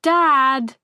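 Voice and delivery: high, loud shriek for her father; high, loud panicked call for dad. A narrator's reading. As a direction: shriek it up the stairs in alarm. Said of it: "she shrieked".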